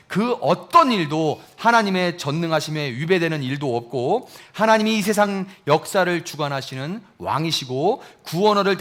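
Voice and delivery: ordinary talk, nothing marked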